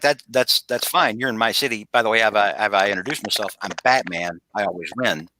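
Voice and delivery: a hint of a low, confident hero introducing himself; Batman. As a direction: imitate cool self-assurance, settling into a low register. Acting out unbothered, confident Batman.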